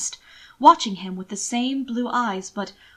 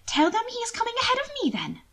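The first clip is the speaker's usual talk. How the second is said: smiling lightly; 14 semitones higher, faster than usual. A narrator's reading. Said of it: "smiling lightly".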